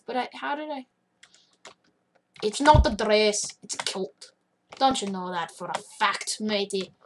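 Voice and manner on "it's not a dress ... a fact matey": mock Scottish accent, low and rather soft. Gamer insisting it's a kilt, mock Scottish accent. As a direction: put on an amateur Scottish accent, kept low. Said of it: "It's not going to be Scottish anymore".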